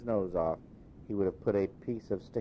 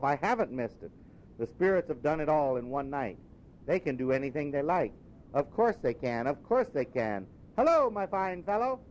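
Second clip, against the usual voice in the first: a little higher, relieved and happy, soaring on Hello; rejoicing Scrooge; 6 semitones higher than usual. Acted. Scrooge to himself then the boy, overjoyed.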